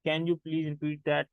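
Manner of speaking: slow, careful teacher demo; spoken English drill, slow and clear; slow model phrase. Shown as a demonstration. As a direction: say it slowly for learners to copy. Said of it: "तो आप उसे कहते हो".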